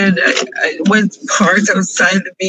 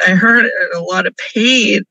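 crying; faster than usual. Real, not acted. Vlogger breaking down over lost friend.

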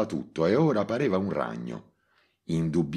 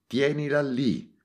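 higher, slow, urgent shout; shouted order; 10 semitones higher than usual. Acted. Montalbano shouts to Gallo on the phone. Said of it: "gridò a Gallo".

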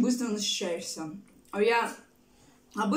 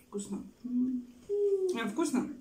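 talking while eating; chewing; 3 semitones higher, slower than usual. Real, not acted. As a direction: mouth full of food. Seen 0: Fork at lips, mouth closed and working while she says "tasty.

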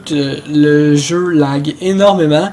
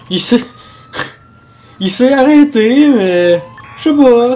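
laughing; 6 semitones higher, 3 dB louder than usual. Real, not acted. Suspect suddenly stops, laughs.

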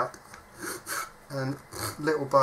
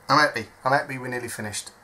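normal talking voice

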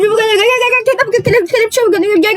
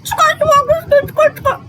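strained; 12 semitones higher, much slower than usual. Retold or imitated. Struggling to pull mask off.

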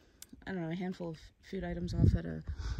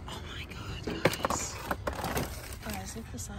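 whispering. Real, not acted. Amazed whisper over a find.

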